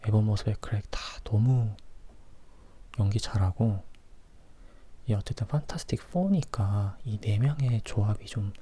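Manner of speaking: ordinary talk, nothing marked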